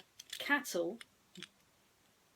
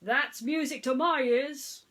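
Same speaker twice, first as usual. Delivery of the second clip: Sheriff sighing; 5 semitones higher, 8 dB louder than usual. A narrator's reading. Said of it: "Sheriff sighed".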